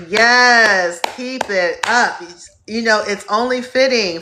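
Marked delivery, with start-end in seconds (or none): 0.1-2.2 cheer. Real, not acted. Cheering viewers on during stream.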